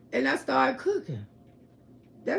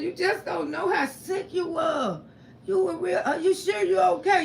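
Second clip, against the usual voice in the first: tearful concern; 6 semitones higher than usual. Retold or imitated. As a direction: plead anxiously. Relatives worried, crying.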